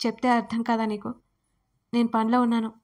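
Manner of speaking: loud, exasperated brush-off; irritated shout. Acted. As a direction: snap at her to leave him alone. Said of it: "మరింత విసుగ్గా". (విసుగ్గా, కాస్త గట్టిగా అరుస్తూ)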